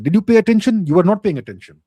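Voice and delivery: firm, exasperated demand. Real, not acted. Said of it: "I'm not trying to shout at you".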